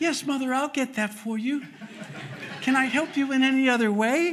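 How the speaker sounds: sweet, extra-polite tone. Recalling how he and his brother addressed their mother before christmas, retelling a sweeter, higher voice. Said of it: "our voice was a little higher and a little sweeter".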